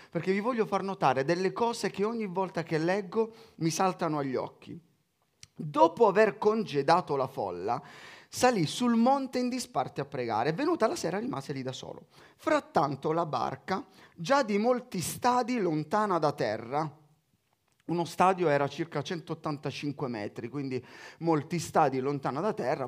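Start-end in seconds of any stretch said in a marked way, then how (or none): 5.6-17.0 measured Bible reading voice; scripture reading. Acted. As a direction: read the Gospel out to the congregation. Reads the Gospel aloud.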